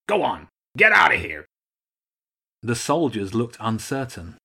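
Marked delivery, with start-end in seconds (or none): 0.1-1.5 loud, higher commanding shout; shouted dismissal. Acted. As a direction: shoo the troops off with a shout. Archduke dismissing his soldiers.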